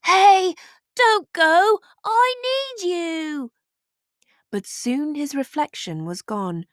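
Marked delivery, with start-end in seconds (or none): 0.1-3.5 high, loud pleading call, slowing at the end; desperate cry. A narrator's reading. Leopold crying out to his vanishing reflection, desperate. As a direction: beg the reflection not to leave. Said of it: "Leopold cried".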